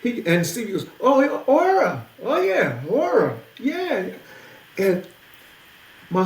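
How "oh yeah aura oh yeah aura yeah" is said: excited recognition. Retold or imitated. Stevie greeting him excitedly.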